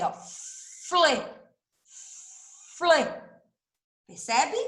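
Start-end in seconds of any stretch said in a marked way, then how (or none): 0.1-3.0 Fle, fle com o f e o l bem juntos e nítidos; sílaba demonstrada. Shown as a demonstration. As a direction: repita Fle claro e marcado. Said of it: "Olha como eu falo o som do F e do L". (Fle bem articulado)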